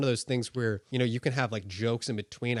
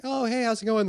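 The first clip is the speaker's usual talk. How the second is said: voiced other person; 11 semitones higher, 5 dB louder than usual. Shown as a demonstration. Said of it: "I have somebody talking to me".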